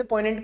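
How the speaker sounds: पोइग्नेंट said as poy-nent, no ग sound; silent G. Shown as a demonstration. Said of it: "इसको जी यहाँ pronounce नहीं होते". (पोइग्नेंट में ग मौन, पोइनेंट जैसा उच्चारण)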